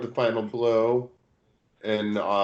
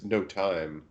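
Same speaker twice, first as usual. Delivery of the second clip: scratchy voice. Acted. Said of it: "he says in a scratchy voice".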